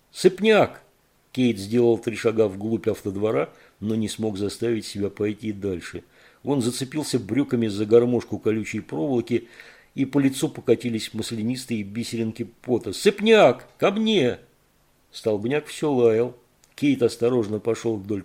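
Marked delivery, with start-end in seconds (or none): 0.1-0.8 high, loud call; loud falling call; calling the dog. Acted. 12.9-14.4 high, loud call; loud falling call; calling the dog. Acted.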